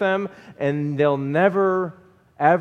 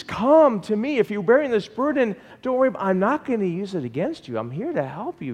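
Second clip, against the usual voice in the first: voicing Jesus tenderly; 6 semitones higher than usual. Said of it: "No wonder He says".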